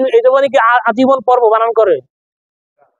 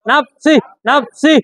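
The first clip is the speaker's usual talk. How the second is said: slow drawn reading; slower than usual. Shown as a demonstration. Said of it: "আবার নাফসি বানান কি".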